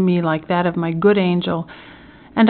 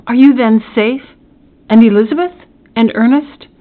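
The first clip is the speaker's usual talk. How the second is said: loud, higher urgent questions; anxious cry; 5 semitones higher, 7 dB louder than usual. A narrator's reading. Son asks father after his family, urgent cry. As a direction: cry out eagerly for news of loved ones. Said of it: "stretched out my hand to him and cried".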